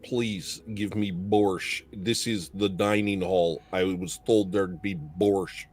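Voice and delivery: Russian accent. Shown as a demonstration. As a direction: play a bleak, lonely Russian, dragging the words. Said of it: "Do a Russian accent".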